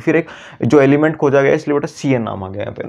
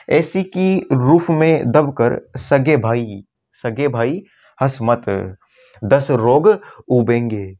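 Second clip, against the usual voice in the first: slow, deliberate chant of the mnemonic; slow mnemonic recital; much slower than usual. Shown as a demonstration. Teacher reciting the chemistry mnemonic slowly. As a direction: lay out each word of the trick. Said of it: "trick अपनी क्या निकलेगी".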